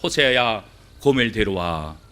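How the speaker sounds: a low, calm voice of God giving a command; God speaking. Acted. God summoning Hosea to bring back Gomer, low and calm. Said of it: "그런데 하나님이야".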